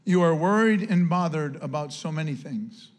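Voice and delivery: low, gentle compassionate tone; a soft, tender rebuke from Jesus. Shown as a demonstration. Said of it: "his tone here is one of soft and one of compassion".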